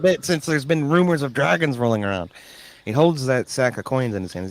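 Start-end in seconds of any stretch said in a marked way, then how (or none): 0.0-2.3 lightly voiced farmer. NPC voiced by game master.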